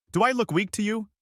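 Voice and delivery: menacing. A narrator's reading. Crazed leader threatens.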